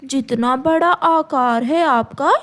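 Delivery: sweet, coaxing bird voice; butter up the crow slyly; sly myna flattering. Acted. Myna coaxing the crow out of his bread, sweetly sly.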